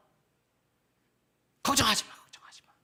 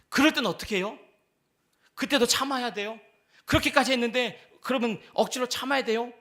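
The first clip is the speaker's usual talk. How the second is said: higher, louder pleading questions; believer's question; 4 semitones higher, 5 dB louder than usual. Acted. Believer asking if they must keep enduring, raised and pleading. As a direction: press the preacher with rising complaints. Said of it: "라고 묻는 질문에".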